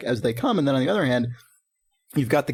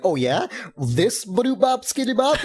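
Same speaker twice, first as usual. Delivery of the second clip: mocking smarmy prince; 7 semitones higher, slower than usual. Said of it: "He's like".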